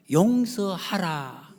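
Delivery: very slow solemn command. Retold or imitated. God commanding forgiveness, very slow solemn command. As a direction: draw out 용서하라 syllable by syllable. God's command voiced slowly.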